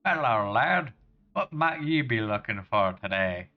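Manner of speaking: hearty generic Scottish lad-speak; terrible Scottish accent. Acted. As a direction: put on a bad Scottish accent. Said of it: "really terrible generic Scottish accent".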